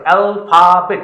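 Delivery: অ্যালফাবেট slowly, in three separate parts; split into three syllables. Shown as a demonstration. Teacher showing students the syllables of অ্যালফাবেট, slow three-part split. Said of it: "তিনটে পার্টে আমরা কি উচ্চারণ করছি".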